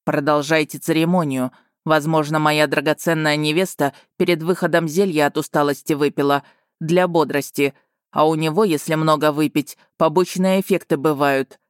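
lightly voiced smooth-talking groom; a hint of a groom bluffing; nervous groom voice. Groom's voice, covering for bride.

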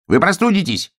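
hedgehog cries out in alarm; warning cry. A narrator's reading. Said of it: "закричал ёжик". (высокий тревожный выкрик)

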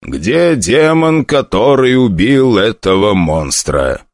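very slow, flat-toned threat; a cold, empty interrogator; emotionless voice. Acted. Stronger to the captive summoner, slow and emotionless. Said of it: "Таким же безэмоциональным был и его голос".

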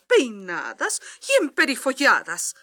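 usual speaking voice

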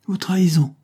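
contemptuous echo, pitched high; supreme contempt. A narrator's reading. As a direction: throw it back with utter disdain. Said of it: "avec un suprême mépris".

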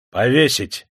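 curt, vicious command; malicious order. A narrator's reading. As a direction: order the hanging with spite. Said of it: "зло приказал майор".

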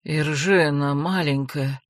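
father calls his hurt daughter with compassion; compassionate call. Acted. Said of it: "С состраданием позвал".

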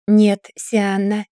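slow, friendly robot; lightly voiced friendly robot; kindly robot voice. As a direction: gently correct her. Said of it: "доброжелательный голос робота".

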